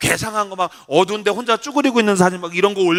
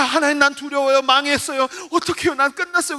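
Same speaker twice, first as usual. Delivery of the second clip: high-pitched panicky pleading; acted desperate lament; fearful prayer; 6 semitones higher than usual. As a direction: cry out helplessly to God. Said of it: "너무너무 두려워서".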